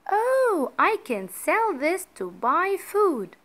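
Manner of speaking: high, lilting exclamation; light up with a sudden idea; pleased realisation. A narrator's reading. Mother's delighted thought in story.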